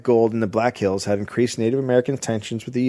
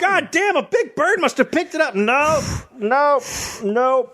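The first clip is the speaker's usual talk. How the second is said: put-on old-timey bumpkin; 13 semitones higher than usual. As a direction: puzzle it out like a yokel. Answering in the same voice.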